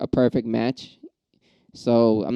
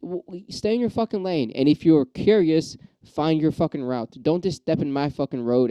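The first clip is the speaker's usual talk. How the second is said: riled up; 4 semitones higher than usual. Real, not acted. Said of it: "I'm getting riled up again".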